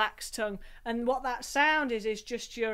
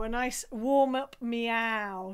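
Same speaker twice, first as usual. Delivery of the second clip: slow warm-up; much slower than usual. Shown as a demonstration. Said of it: "we're gonna have a meow".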